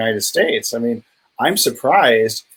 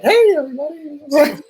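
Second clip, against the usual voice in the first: Esther Hicks. Retold or imitated. Podcast guest mimics a speaker fresh from her trance, high girlish squeal. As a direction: chirp it like an over-enthusiastic little girl. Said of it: "She sounds like a little girl almost".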